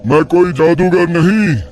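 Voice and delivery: a hint of a cruel old mystic; taunting tantric. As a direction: sneer at his faith and his daughter's fate. Sage tempts the father.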